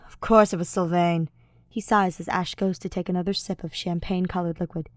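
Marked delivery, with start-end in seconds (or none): 0.1-1.3 whispered, annoyed; whispered exasperation; exasperated whisper. Acted. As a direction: mutter it under breath. Felix muttering in exasperation.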